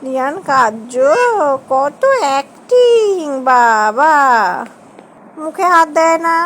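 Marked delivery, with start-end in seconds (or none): 1.7-4.2 very slow, drawn-out mock amazement; teasing. Real, not acted. Teasing child's fake crying. (টেনে টেনে ঠাট্টা)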